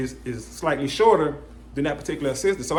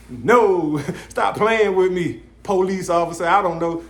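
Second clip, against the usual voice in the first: laughing through a mock refusal, louder; 3 semitones higher, 4 dB louder, slower than usual. Refusing the weed seller while laughing. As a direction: brush him off with a laugh.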